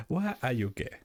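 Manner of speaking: imitating a deadpan, dead-serious Caribbean-style delivery; serious quote voice. Streamer quoting a meme guy, mock serious voice. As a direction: say it totally straight-faced, mock serious. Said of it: "It's just the way he says it".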